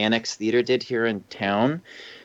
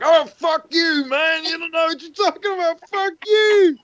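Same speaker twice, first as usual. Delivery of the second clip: put-on Cockney accent; 5 dB louder than usual. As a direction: heckle loudly in a Cockney accent. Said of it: "we would just say in, like, Cockney accents".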